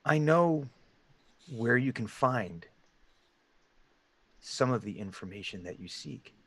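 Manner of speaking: measured hooded stranger, long pauses, fading soft; deep gravelly voice. Acted. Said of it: "it's in this deep, gravelly voice".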